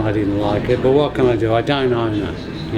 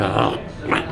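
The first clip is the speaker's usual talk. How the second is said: deflated; 4 semitones lower, 5 dB quieter than usual. Retold or imitated. Retold let-down over credit card request.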